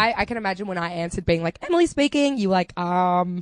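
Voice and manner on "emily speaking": phone voice. Retold or imitated. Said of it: "I go a bit higher, a little bit nicer".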